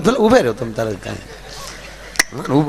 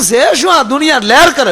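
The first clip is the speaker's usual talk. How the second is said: high, slightly louder mocking disbelief; incredulous question; 9 semitones higher, 4 dB louder than usual. The speaker teases a henpecked husband in high disbelief. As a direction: toss it out like you can't believe it.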